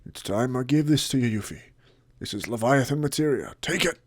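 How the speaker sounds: a hint of a stern old lord, handing over a gift; lightly voiced lord, formal and proud; stern old lord bestowing a treasure; lightly voiced Lord Godo. Voices Lord Godo in a Let's Play.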